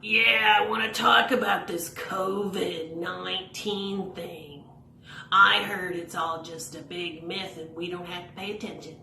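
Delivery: lightly voiced know-it-all puppet; a hint of a careless puppet spreading rumours; Rory puppet voice. Rory puppet repeats a covid rumour, lightly voiced. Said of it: "this is what he's thinking about".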